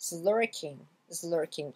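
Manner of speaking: LURKING begun with a buzzing Z, "z-lurking"; Z sound. Shown as a demonstration. Teacher shows learners apostrophe S as Z before lurking. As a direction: glue a Z onto the front of lurking. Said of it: "ça se prononce avec un son Z".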